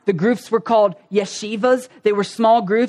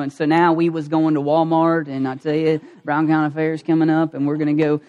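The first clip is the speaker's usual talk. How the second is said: lower, easygoing Southern country talk; Southern accent; 4 semitones lower than usual. Shown as a demonstration. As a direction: play up a small-town Southern accent. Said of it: "we just slid right back into it".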